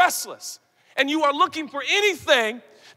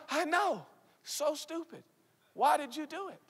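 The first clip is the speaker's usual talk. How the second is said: softer, self-mocking mumble; mock sheepish teen; 5 semitones higher, 9 dB quieter than usual. Preacher mimics a teen scolding themself, soft mumble. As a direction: grumble it at yourself. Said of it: "and you go".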